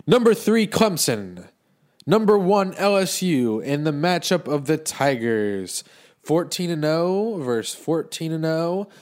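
hyped TV sportscaster intro; sports announcer. Pretend. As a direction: play the game-night announcer. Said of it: "I'll give you a tail of the tape".

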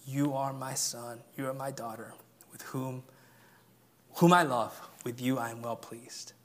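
soft, hushed voice of God; quiet reassuring blessing; tender. Acted. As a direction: say it gently like a loving father. Preacher voices God's tender words.

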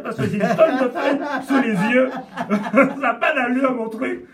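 parler à travers le rire, gêné; en riant. Real, not acted. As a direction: ris de ton propre désordre. Rit de ses feuilles. (en riant)

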